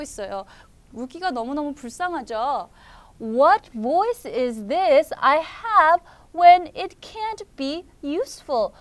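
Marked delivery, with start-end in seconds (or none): 3.2-8.7 slow, plaintive storybook reading; lamenting. Acted. Rookie laments his useless voice, slow mild complaint. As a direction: bemoan it word by word. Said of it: "한탄을 하고 있어요".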